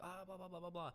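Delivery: high, silly blah-blah mimicry of a yelling partner; mock shouting girlfriend. Mocking an angry girlfriend's ranting, high and silly. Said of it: "they'll start shouting, like".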